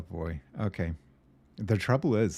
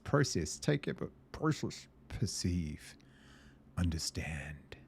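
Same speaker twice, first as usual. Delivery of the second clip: dramatic story reading. Acted. Reading the game's story aloud to viewers, theatrical and rising. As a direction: read it like a man slipping into the machine.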